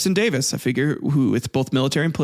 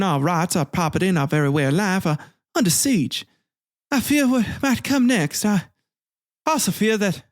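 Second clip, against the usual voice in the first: a lightly voiced Southern lady, a bit higher; Southern diarist; 4 semitones higher than usual. Charleston wife pouring worries into her diary, lightly voiced and higher. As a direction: read it like a fretful plantation wife's diary. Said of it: "wrote in her diary".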